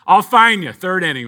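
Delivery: put-on confident old lady, light Boston accent; a hint of Boston as she promises; lightly voiced Boston lady. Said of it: "I'm invoking my Boston".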